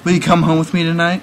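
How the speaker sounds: a hint of an effeminate come-on. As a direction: imitate an effeminate invitation, lightly voiced. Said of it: "like, effeminate voice".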